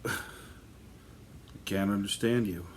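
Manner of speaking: slow words broken by a laugh; laughing while retelling the frustration; laughing through it. Retold or imitated. Son to mom at night, laughing slowly.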